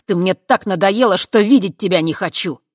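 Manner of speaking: angry outburst. Acted. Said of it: "добавил со злостью".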